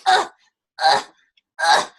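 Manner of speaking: short heavy "ugh" of effort; effortful grunt. Retold or imitated. Lugging a sandbag on the leg, effortful grunts. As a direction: grunt as if hauling a weight.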